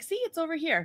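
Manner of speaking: put-on, overly courteous, very polite, gentle voice. Retelling how a man showed the way upstairs, imitating a very polite voice. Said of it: "Like he's talking just like this, very polite".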